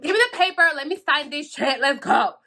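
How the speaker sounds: high, loud, impatient demand; so mad. Retold or imitated. Retelling her demand to sign the paper, mad. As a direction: retell it as an angry order. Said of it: "I was just so mad".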